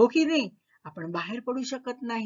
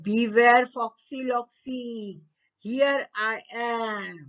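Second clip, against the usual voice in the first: warning dog; 4 semitones higher, 3 dB louder, much slower than usual. Acted. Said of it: "तो फॉक्सला काय म्हणाला".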